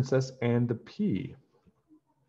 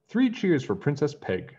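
shouting; 6 semitones higher than usual. A narrator's reading. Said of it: "shouted Fred".

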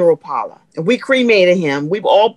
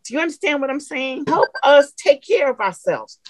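ordinary delivery

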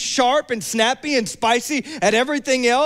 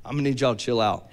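lower, fast sleepy brush-off; groggy brush-off; 8 semitones lower, 4 dB quieter, faster than usual. Retold or imitated. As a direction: wave them off half asleep. Just-woken pastor reply.

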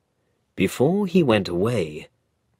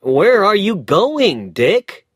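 higher, louder puzzled call; young lawyer calling; 10 semitones higher, 7 dB louder than usual. Acted. Lawyer asks Dick where he is going, louder and higher. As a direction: call after the boy packing up.

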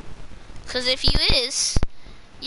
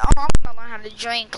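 mocking echo; 8 dB louder, faster than usual. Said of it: "You just say".

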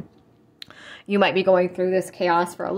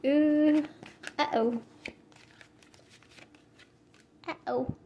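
softer, higher worried oohs; ominous uh-oh; 8 semitones higher, 6 dB quieter, slower than usual. Real, not acted. Tarot reader spots bad cards for the client, ominous uh-oh. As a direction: let alarm slip out in small, hushed reactions. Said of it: "I shouldn't say it like that".

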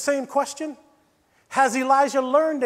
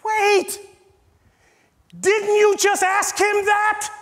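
higher, louder, slowed in mock surprise; surprised; 8 semitones higher, 5 dB louder, slower than usual. Real, not acted. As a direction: act startled by the repeat. Preacher feigns surprise at repetition.

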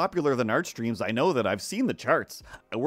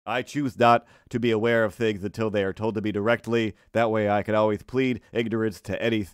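low-pitched lisping character voice; self-important denial with a lisp; lisping, officious sidekick; 3 semitones lower than usual. Acted. Sidekick character pleads ignorance.

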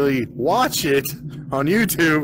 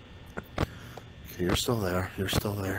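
tense hushed whisper; 9 semitones lower, 12 dB quieter than usual. Real, not acted. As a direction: breathe it out, barely audible.

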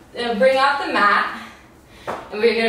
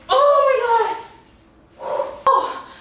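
relieved exclamation; 11 semitones higher than usual. Real, not acted. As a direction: burst out with relief. Workout just finished.

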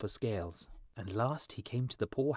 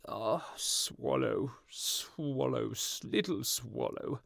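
pleading prince; 4 semitones higher, much slower than usual. A narrator's reading.

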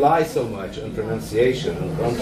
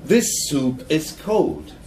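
customer complaining; slower than usual. Shown as a demonstration. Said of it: "I turn to the waiter and I say".

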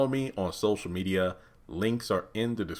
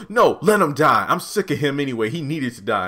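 louder at first, curt; cold refusal; 4 semitones higher, 6 dB louder than usual. Retold or imitated. Jasmine refusing to call for help, cold. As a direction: shut her down coldly.

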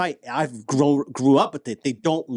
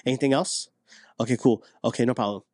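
calm reassurance; 5 semitones lower, 3 dB quieter than usual. Shown as a demonstration. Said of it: "you need to recognize that".

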